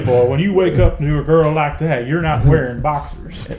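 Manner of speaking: a hammed-up deep American South accent; mock Cajun bayou voice; Southern drawl. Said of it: "deep American South".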